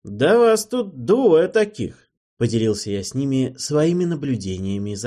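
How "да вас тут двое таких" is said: higher, louder, slow jab from the window; mocking shout. A narrator's reading. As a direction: shout down, teasing. Hero scolding from window. (насмешливо кричит из окна)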